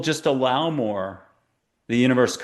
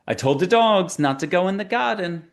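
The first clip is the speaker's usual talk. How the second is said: high, put-on Asian accent for the little guide; a much higher voice, mimicking his Asian accent; imitated Asian accent; 7 semitones higher than usual. Guide describes the little spirit, imitating his Asian accent. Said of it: "I'll just try to imitate his voice".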